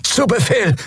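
high strained creature voice; groaning reptile voice. A narrator's reading. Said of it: "ächzte Quailor".

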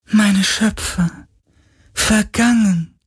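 high, slow lament. A narrator's reading. Spirit lamenting to Galen, high and slow. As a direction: grieve for the lost makers. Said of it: "klagte der Geist".

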